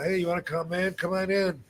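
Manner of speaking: high-pitched eager welcome, retold; eager host, lightly acted; excited invitation. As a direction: imitate an excited fan inviting someone in. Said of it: "he was all excited".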